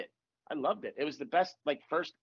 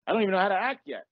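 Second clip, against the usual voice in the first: startled disbelief; 3 semitones higher, 5 dB louder than usual. Retold or imitated. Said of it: "And I was like".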